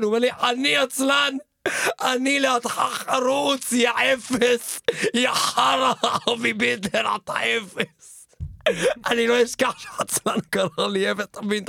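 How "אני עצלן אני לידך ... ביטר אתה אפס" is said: slow, drawn-out jeering insults; a lazy animal sneering slowly at him; mocking sloth. Sloth mocks Avi as worse than lazy, slow jeering.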